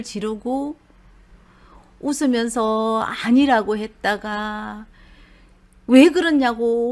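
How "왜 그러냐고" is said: lightly raised angry 왜, quickly retold; retold anger. The narrator recapping the husband's fit, lightly raised mock anger. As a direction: brush past the anger in the telling. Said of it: "화를 냈다가".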